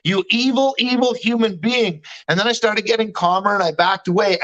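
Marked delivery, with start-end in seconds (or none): 0.0-2.0 moderately heated accusation; retold anger. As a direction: re-enact an angry confrontation, slightly raised. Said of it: "I got angry".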